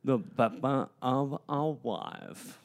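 slow, thick-tongued speech; swollen tongue. Pretend. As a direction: speak slowly round a fat tongue. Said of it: "my tongue is so big".

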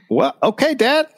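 put-on high-pitched hesitant kid voice; uneasy son. Son answering Dad's fierce pledge, high uneasy voice. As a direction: go up high, humouring a parent.

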